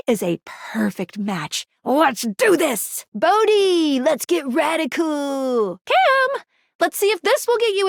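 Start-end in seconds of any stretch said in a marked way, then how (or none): 1.8-3.0 drawn-out, hyped-up cheer; rallying cry. Acted. Game character kicking off the realization, drawn-out hype. Acted battle cry before ritual. 3.1-5.8 drawn-out radical cheer; hyped-up call. Acted. Game character rallying Bodhi, excited drawn-out shout.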